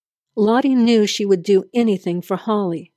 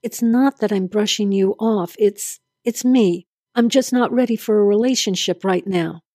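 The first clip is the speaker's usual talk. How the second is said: shaky voice. Acted. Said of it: "said in a shaky voice".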